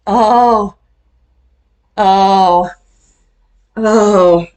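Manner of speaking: loud, high, drawn-out oh sounds of disbelief; excited oh-ing. Real, not acted. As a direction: exclaim over and over in excited disbelief. Reacts loudly to the video.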